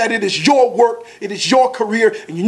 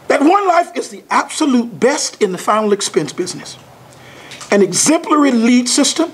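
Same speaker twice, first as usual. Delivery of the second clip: measured list, pausing after each item; slow and deliberate, phrase by phrase; slow read-through. Shown as a demonstration. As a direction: take it slowly, letting each point land. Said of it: "go through it slowly first".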